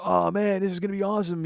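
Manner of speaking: mock enthusiasm, high and eager; excited Deadhead. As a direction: imitate a thrilled stoner-band fan. Imitating excited shambling Deadheads.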